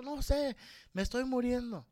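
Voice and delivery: high mock whimper of a dying mother; theatrical plaintive moan. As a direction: play the mother milking it. Mother wailing reply.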